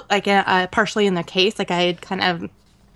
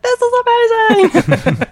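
high, loud delighted exclaim; retold wide-eyed amazement; excited gush; 6 dB louder than usual. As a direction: gush about the view, way up high. Retelling own excited reaction.

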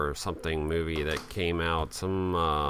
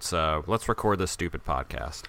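disgruntled muttering; 4 dB louder than usual. Real, not acted. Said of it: "I am not happy right now".

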